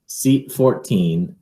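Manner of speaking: ordinary delivery, nothing marked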